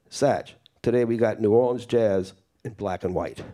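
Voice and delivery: measured, emphatic reading of a quotation; reading aloud. Acted. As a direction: read the written tribute out to an audience. Reads a jazz musician's written quote aloud.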